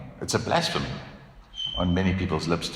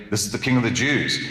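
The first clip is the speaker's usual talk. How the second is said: sarcastic; 3 semitones higher, faster than usual. Retold or imitated. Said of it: "Even the sign is meant to be sarcastic".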